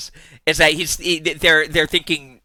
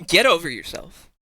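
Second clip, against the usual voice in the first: ordinary delivery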